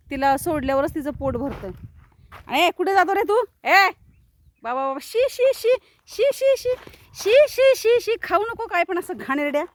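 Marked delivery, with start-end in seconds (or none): 2.5-3.9 loud high call after the animal. Real, not acted. Calling after a wandering animal. 4.6-9.6 very high, loud shoo-shoo cries; shooing shout. Real, not acted. Stopping the dog eating dirt.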